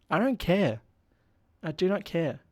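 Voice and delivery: hammed-up indifference; dismissive. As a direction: shut down a whining plea. Host brushes off a pleading captive.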